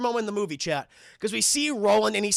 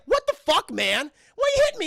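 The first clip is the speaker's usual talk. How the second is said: high, loud indignant squawk; mock raptor bickering; 11 semitones higher, 5 dB louder than usual. Raptor hit by another raptor, high indignant squawk. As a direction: snap at the other raptor in a high voice. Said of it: "is like".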